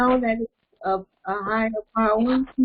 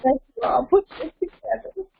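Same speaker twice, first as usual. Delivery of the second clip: choking up while thanking everyone; crying; 3 semitones higher than usual. Real, not acted. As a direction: voice breaking with tears. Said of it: "because she's very emotional".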